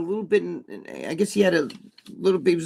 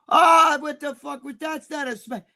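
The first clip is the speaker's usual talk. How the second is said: mocking scoff; 9 semitones higher, 4 dB louder than usual. Mocking a weak slap.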